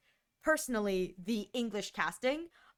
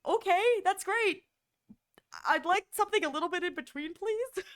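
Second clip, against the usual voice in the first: mock polite request; 9 semitones higher than usual. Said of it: "I go".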